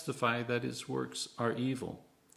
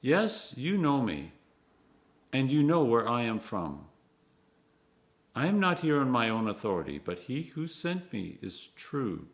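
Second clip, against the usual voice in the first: cried out; 3 semitones higher, 3 dB louder than usual. Acted. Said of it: "cried out".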